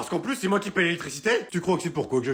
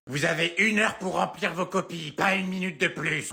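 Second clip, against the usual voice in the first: strict teacher. Acted. Teacher announcing exam.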